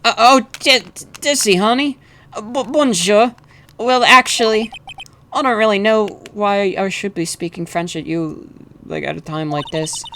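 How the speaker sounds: high, nervous husband; hesitant, tongue-tied and high; flustered stammer. Acted. Flustered husband answering his wife.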